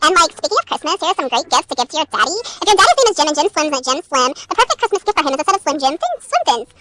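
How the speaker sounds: loosely attempted Valley Girl accent. Reader trying a voice on a gift rhyme, Valley Girl. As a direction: read it like a Valley Girl, with casual likes. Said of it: "I could do a Valley Girl".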